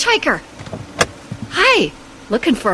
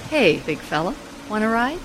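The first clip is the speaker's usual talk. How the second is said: gangster's moll; 5 semitones lower, 5 dB quieter, faster than usual. Acted. Flirting with the hitchhiker.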